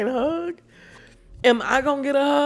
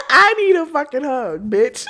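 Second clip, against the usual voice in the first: laughing. Real, not acted. Laughing mid-bit.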